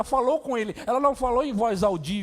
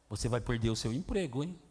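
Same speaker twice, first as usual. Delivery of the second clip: much lower and softer, taunting threat; whisper-low taunt like a bully; low sneering threat about losing your job; menacing circumstance; 10 semitones lower, 7 dB quieter than usual. Acted.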